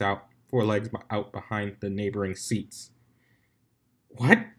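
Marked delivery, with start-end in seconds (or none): 4.1-4.5 high, loud startled "What?"; a raised alarmed voice over the roar. A narrator's reading. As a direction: call it out over the crowd noise. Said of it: "Twilight said in a loud voice".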